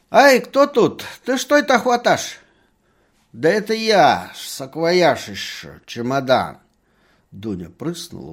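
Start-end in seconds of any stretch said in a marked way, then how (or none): 0.1-2.4 high, loud startled crone voice; lisping old woman's cry. A narrator's reading. Old woman startled in the dark, crying out loud and high. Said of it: "раздался старушечий шепелявый окрик". 3.3-6.6 merchant's voice. A narrator's reading. Merchant answers in the dark.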